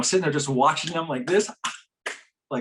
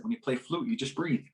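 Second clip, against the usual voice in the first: softer, soothing instruction; soft, calming; 7 dB quieter than usual. Retold or imitated. Teaching a crying child to breathe through flute, soft calm. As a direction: drop the volume and gently settle the listener.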